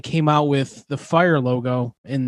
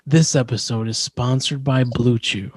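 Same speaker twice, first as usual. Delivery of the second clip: sponsor read demo; 4 semitones lower than usual. Shown as a demonstration. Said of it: "Just be like".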